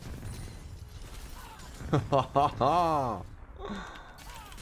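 breathy, drawn-out laugh; laughter. Real, not acted. Gamer relishing a kill, drawn-out laughter.

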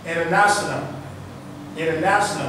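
"international" American-style, T dropped after N. Shown as a demonstration. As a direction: say "international" like "innernational", American accent. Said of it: "vous allez probablement entendre". (« international » à l'américaine, sans le T)

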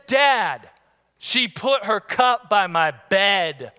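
put-on slow, indignant child voice; kid complaining. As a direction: complain like a wronged boy. Son complaining.

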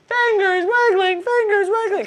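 put-on high, loud chant for the kids; loud reminder. Shown as a demonstration. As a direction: call it out for everyone. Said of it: "remind you very loudly".

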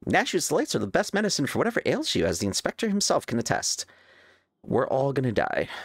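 character voice. Acted. Reads character dialogue aloud.

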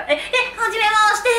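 high, hesitant stammered hello; awkward shy greeting. Retold or imitated. Meeting strangers at Halloween, awkward nervous hello. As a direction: stumble nervously into an introduction. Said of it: "みたいなテンションになると".

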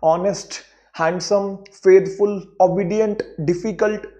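ऑनेस्ट, हैंडसम, फेथफुल, ओबीडिएंट, डिफिकल्ट, each with a subtle inner break; measured syllables on ऑनेस्ट, हैंडसम, फेथफुल, ओबीडिएंट, डिफिकल्ट; slight mid-word break. Shown as a demonstration. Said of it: "बहुत हल्का सा break आ रहा है".

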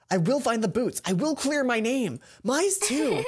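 determined vow with a laugh at the end; determined resolve. Acted. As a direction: swear it to yourself. Resolve speech, voice rising.

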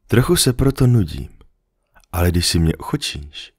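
the fox patiently explaining to the little prince; lightly voiced fox. Fox dreams of being tamed.

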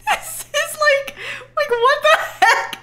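high, laughing through tears. Real, not acted. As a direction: giggle through the words. Laughing disbelief.

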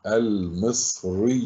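المصريين drawn out slowly and softly; slow reading. Shown as a demonstration. Teacher reading المصريين first before analysing it, slow and careful. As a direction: read المصريين unhurriedly, stretching each part. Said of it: "اقرأها أولًا على مهل".

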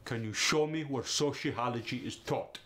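Russian accent. Shown as a demonstration. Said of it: "in the Russian accent, it's more staccato".

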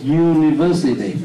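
University slowly, with a YU sound at the start; slow correct University. Shown as a demonstration. Teacher correcting the student's University, slowly. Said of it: "không phải là university".

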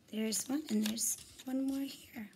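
unvoiced secret whisper to the class. Teacher whispers a hint to her class, hushed. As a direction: let the kids in on a secret, whispering.

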